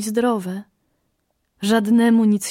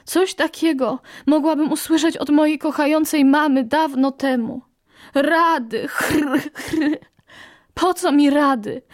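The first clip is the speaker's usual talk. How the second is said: higher, rasping small bird voice; hoarse little parrot; 6 semitones higher than usual. Acted. Brave parrot rebuffs the eagle's advice, higher and hoarse. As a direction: croak it out like a tired little bird. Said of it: "zachrypiała papuszka".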